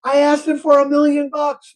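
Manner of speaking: high-pitched defensive outcry; exasperated protest. Acted. Guy answering bartender about his wish, high exasperated protest. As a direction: protest it high, all in one go.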